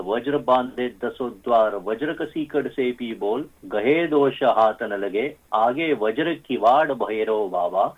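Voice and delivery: steady recital of a protective mantra for listeners; mantra recitation. Shown as a demonstration. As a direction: recite the mantra in even, measured phrases. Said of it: "I will just say it very quickly".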